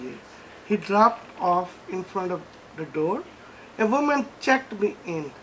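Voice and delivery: measured recital, sentence by sentence; prose poem reading. Acted. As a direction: read your own story aloud with deliberate pauses. Reads his prose poem aloud.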